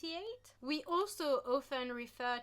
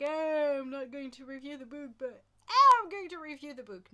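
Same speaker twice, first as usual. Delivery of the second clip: retelling a teasing joke from an earlier video; 3 semitones higher, 10 dB louder than usual. Retold or imitated. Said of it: "where I was like".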